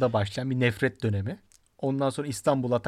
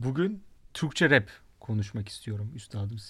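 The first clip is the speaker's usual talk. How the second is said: German-Turkish accent; 3 semitones lower than usual. Shown as a demonstration. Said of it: "Almancı aksanıyla söyledim birazcık".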